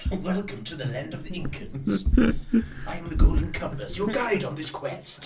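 a hint of a mystical guide, breathing heavily between words; mock grand guide voice with audible breaths; compass voice with heavy breathing. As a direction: ham up the breathy magic compass, lightly voiced. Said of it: "into amateur dramatics by doing a heavy breathing".

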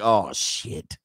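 a father noticing his son in love; low resigned parent. Retold or imitated. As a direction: sigh it like a let-down father. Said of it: "you're like".

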